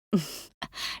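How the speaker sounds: short breathy laugh; a small, quiet laugh under the breath; soft chuckle. Acted. Soft laugh before agreeing.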